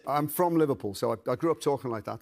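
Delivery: Liverpool accent, conversational; everyday Liverpudlian voice. Shown as a demonstration. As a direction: speak in a natural Liverpool accent. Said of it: "That's my natural accent".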